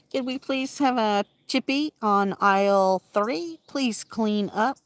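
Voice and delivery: slow, loud cleanup-on-aisle call; mock store PA call. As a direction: announce it like a shop speaker, slowly.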